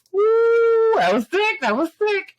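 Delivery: high hyped whoop and praise; excited whoop. Real, not acted. Hyped fan cheering the wing scene. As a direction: cheer it out, thrilled. Hyped about Namor's wings.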